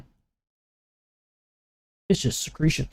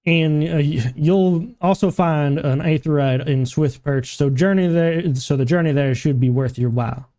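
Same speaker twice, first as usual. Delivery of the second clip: lightly voiced game quest giver; 2 semitones higher, slower than usual. Quest giver sending adventurer after lost cargo, lightly acted role. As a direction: read the quest briefing in character.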